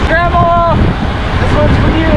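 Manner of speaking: high, slow, drawn-out call; excited shout. Real, not acted. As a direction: call it out high and slowly, like a dedication. Dedicating the ride to grandma.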